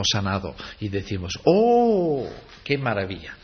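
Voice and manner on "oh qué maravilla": high, overdone gasp of wonder; mock amazement. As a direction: ham up a shallow oh how wonderful. Mocking the crowd's shallow amazement.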